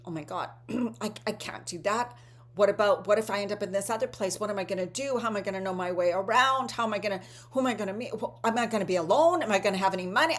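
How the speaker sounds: quick, fretful mock panic with rising questions; imitating panic. Anxious person offered a mystery trip, mock panic. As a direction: rattle off the worries like a nervous traveller. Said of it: "they'll be so panicked and full of fear".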